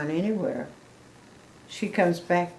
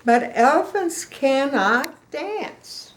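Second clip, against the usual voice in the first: sadly; 7 semitones higher, 4 dB louder, slower than usual. Acted. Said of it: "he said sadly".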